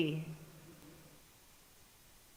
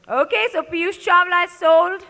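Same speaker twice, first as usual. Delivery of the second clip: auctioneer; 5 semitones higher, 7 dB louder than usual. Real, not acted. Auctioneer announcing a sale.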